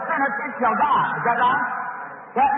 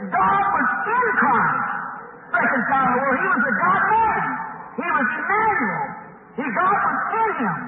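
emphatic, higher-pitched pulpit declaration; fervent preaching; 4 semitones higher than usual. Real, not acted. Preaches at full force.

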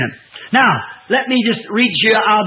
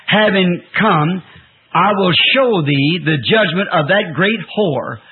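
scripture reading; slower than usual. Real, not acted. Reads scripture aloud.

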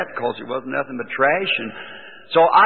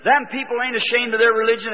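retold excitement, pitched up; happy; 5 semitones higher than usual. Husband tells wife about people he met, happily excited. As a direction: gush about wonderful new people. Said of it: "Why you sound so happy".

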